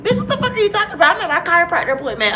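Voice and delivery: high, very fast exasperated reply; irritated confusion. Retold or imitated. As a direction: rattle it off, annoyed and baffled. Friend confused, annoyed reply.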